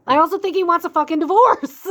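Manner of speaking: high, loud excited blurt. Real, not acted. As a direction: blurt it out, thrilled. Sudden blunt revelation.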